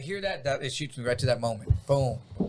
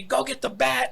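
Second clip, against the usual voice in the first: retold yell; 9 semitones higher than usual. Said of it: "he yelled at me".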